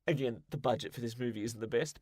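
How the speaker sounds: normal talking voice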